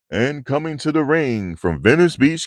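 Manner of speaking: imitating the old wrestling ring announcer. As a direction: bring the wrestler out like Howard Finkel. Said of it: "Howard Finkel".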